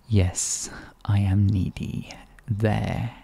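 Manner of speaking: hushed, breathy admission; whisper. Acted. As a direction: whisper it like a secret confession. Teasing confession, whispered.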